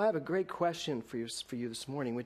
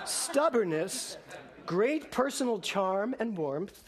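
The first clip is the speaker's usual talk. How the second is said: laughing; 3 semitones higher, slower than usual. Real, not acted. Still laughing after the joke.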